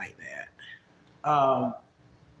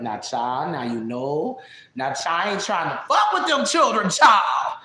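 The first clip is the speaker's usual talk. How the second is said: distinctive friend impression. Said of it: "very distinctive way of talking".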